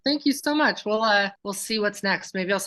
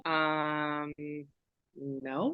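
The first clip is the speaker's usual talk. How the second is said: guilty denial; 5 semitones lower, 9 dB quieter than usual. Acted. Acted scene, denying to friend.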